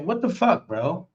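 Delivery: retold shocked yell; shocked outburst. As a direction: voice jumps high in disbelief. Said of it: "I went".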